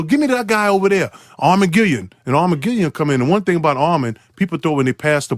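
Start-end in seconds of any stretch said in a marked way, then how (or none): 0.0-2.1 Larry Bird calling. Retold or imitated. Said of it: "Then he go".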